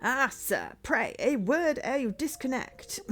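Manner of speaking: slow, polite butler interjection; formal butler. Acted. Butler stops detective before he hangs up, measured courtesy. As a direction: detain him with deliberate courtesy.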